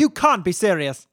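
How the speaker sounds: loud shocked exclamation; appalled snooty outburst; outraged disbelief. Acted. Outraged shop assistant.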